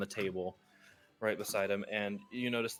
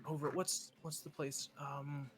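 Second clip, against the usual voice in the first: much higher, sly dealer voice; gambler NPC voice; 4 semitones higher than usual. Acted. Gambler telling the adventurer about a job, high voice. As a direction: pitch up and play the smooth card sharp.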